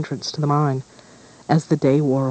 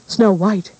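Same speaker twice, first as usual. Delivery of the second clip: sharp, loud furious hiss; angry hiss; 6 semitones higher, 5 dB louder than usual. A narrator's reading. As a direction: spit the name out in fury. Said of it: "hissed the Queen".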